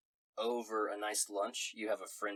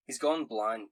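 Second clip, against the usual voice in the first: grave Scottish brogue, a bit louder; Scottish accent; 5 dB louder than usual. Acted. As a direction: give the bad news in Scots. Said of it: "in a Scottish accent".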